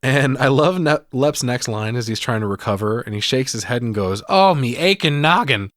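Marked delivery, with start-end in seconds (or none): 4.3-5.7 louder, higher put-on moan; comic exaggerated complaint; groaning leprechaun. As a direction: wail it as a hammy hurt leprechaun. Acting out dazed leprechaun's favorite line.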